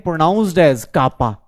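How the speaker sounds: kappa said very slowly and carefully; teacher drawing out the word kappa; slow pronunciation demo. Shown as a demonstration. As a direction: spell out kappa for the class, slow and clear. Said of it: "इसको pronounce करते हैं".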